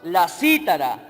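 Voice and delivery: slow, deliberate Bible reading; scripture reading. Real, not acted. Preacher reading verse seven to the church, scripture reading. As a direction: read the verse out phrase by phrase. Reads scripture aloud to congregation.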